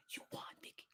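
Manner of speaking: breathy whispered defeat, soft and low; imitated whisper. Inmate conceding to Vicky, whispering. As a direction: whisper the surrender. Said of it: "she whispered it".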